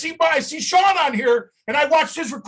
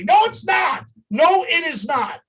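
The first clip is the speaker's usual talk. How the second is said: forceful, higher first "No"; emphatic denial; 3 semitones higher, slower than usual. Real, not acted. Founder rejecting the sports card label, emphatic denial. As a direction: shoot the claim down firmly. Rebutting what people say about company.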